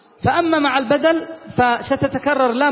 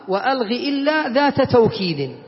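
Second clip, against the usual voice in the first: slow recital of the grammar verse. Shown as a demonstration. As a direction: chant the line from the poem slowly. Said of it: "قال". (إنشاد بطيء لبيت الألفية)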